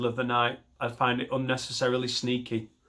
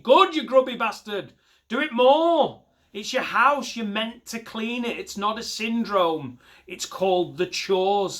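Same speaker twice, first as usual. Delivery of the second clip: much higher, louder scolding rant; mock rant; 8 semitones higher, 4 dB louder than usual. Real, not acted. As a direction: tear into the boaster. Comic rants at the boaster.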